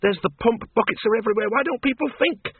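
put-on high, scolding old woman; exasperated woman. Miss Flitworth complains to Bill about the crowd, exasperated.

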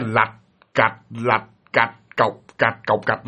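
low, spaced-out clack-clack; imitated creaking rattle. Storyteller imitates a chain rubbing the beam, low rattle. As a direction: mimic the knocking chain, beat by beat. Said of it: "là cái tiếng đó".

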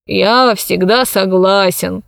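lightly voiced dozy elder; drowsy old man. Old man humours the mistress, slightly drowsy.

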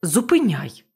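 loud snapped command; urgent order. Acted. Captain ordering Bobby to stop the boat, loud. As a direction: make him stop the ship now.

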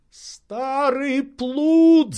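very high, very slow, relieved cry; relieved outburst. Acted. Legrand shouting at his servant in relief, drawn out. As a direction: burst out in relief. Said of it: "с видимым облегчением".

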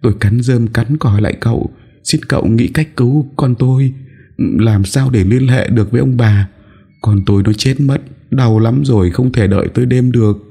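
high, pleading woman's voice; tearful high-pitched plea; begging mother. Acted. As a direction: beg desperately for your child's life. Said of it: "lạy lục van xin".

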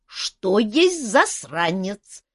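high, very slow puzzled question; a dragon asking innocently; curious dragon. Acted. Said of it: "ещё сильнее заинтересовалась Арау".

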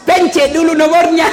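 high-pitched exasperated instruction, played for laughs; mock exasperation. Helper telling Haji how to phone, mock exasperation. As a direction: set the clueless caller straight, mock-impatient.

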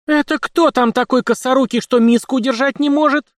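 loud, high threatening question; menacing demand. A narrator's reading. The housewife threatens the clumsy kitchen helper, loud and high. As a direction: demand it so the culprit trembles. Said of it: "грозно поинтересовалась казачка".

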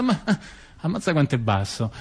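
a mock thought that breaks into a laugh; laughing quote. Andreotti's imagined thought about Riina, laughing. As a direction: laugh your way through the line.

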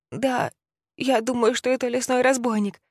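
put-on high, timid child's voice; a scared little boy answering; frightened boy. (испуганный мальчик)

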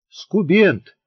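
put-on a girl teasing from under her blanket; squeaky giggling jab. A narrator's reading. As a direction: squeak it out, nearly laughing. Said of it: "пискнула из-под одеяла изнемогавшая от хохота Шурка".

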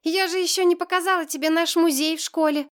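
put-on understated tearful child voice; tearful protest. A narrator's reading. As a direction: plead like an upset schoolgirl. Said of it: "Глаза Маши налились слезами".

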